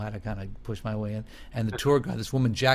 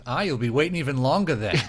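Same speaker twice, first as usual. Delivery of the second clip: cheeky driver; faster than usual. Retold or imitated. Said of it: "the driver goes".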